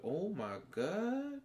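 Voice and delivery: shocked realization. Retold or imitated. Fan realizing Wanda may be the villain, high disbelieving cry. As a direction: gasp it out and shoot up in disbelief. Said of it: "And I was like".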